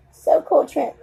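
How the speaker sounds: whispering the praise to the camera; whispered. Pretend. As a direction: breathe it out with no voice. Repeats the praise, then whispers it.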